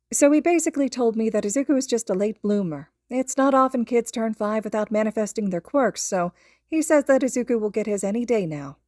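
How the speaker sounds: mother relaying the doctor's words to a friend; lightly voiced mother. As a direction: pass on the good news with relief. Inko on phone.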